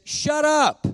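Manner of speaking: high, loud, abrupt shout; sharp command. Retold or imitated. Pastor voicing God cutting off his apologies, shouted. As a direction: yell it as a blunt order to silence. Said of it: "here's what he said to me".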